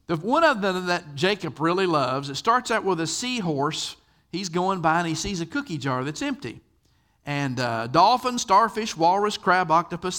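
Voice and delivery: usual speaking voice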